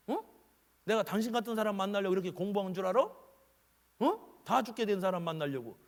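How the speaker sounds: hammed-up irritated rant at a patient; mock angry doctor. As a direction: scold the patient like a rude doctor. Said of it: "이렇게 얘기하더냐 이거요".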